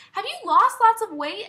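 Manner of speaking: high, loud backhanded question; negative-sounding grandma. Retold or imitated. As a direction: imitate grandma making a compliment sound like a dig. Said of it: "makes it sound very negative".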